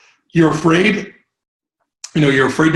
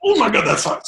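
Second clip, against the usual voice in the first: surprised; 6 semitones higher than usual. Retold or imitated. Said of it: "I was like".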